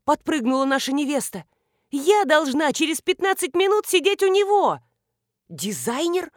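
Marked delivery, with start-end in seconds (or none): 1.9-4.8 high, loud rushed panic; panicked hurry. A narrator's reading. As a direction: blurt it out while rushing off. Marina panics running off.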